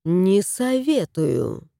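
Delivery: slow, stern warning. Acted. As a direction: warn coldly and firmly. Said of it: "строго сказала".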